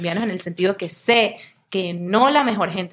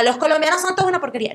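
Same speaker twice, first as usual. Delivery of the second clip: mock bitter; 7 semitones higher, much faster than usual. Imitating a bitter generalization.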